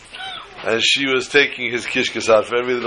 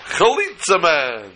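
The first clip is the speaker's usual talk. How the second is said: superhero announcement; 5 semitones higher, slower than usual. Retold or imitated. Kid announces superhero entrance.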